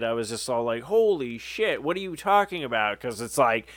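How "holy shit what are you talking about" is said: higher, hushed mock disbelief; retold amazement. Fan retelling hearing the friend met the band, amazed. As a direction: replay being blown away, pitched up. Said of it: "my mind, like, exploded".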